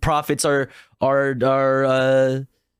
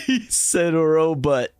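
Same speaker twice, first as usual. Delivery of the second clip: laughing, drawn-out words with pitch raised; amused laughing; 5 semitones higher, slower than usual. Real, not acted. Streamer laughing at the politician's pronunciation, amused and drawn out. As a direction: crack up while repeating the funny word.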